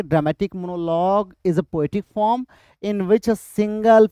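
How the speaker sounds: slow, measured reading of a definition; definition dictation. Shown as a demonstration. Reads out definition for exam.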